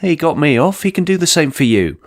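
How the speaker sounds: a lightly voiced rabbit officer; rabbit cop voice. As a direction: pipe up brightly as the young cop.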